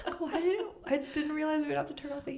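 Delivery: high, fast exasperated outburst; blurting it out in alarm. Retold or imitated. Panicked quote about cold room.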